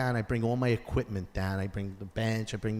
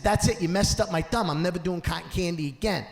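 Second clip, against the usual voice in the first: mock outburst; 5 semitones higher than usual. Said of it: "I said".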